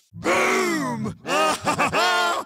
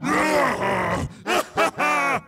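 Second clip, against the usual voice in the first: menacing mock laugh. Racer threatening to crush rivals, gloating cackle.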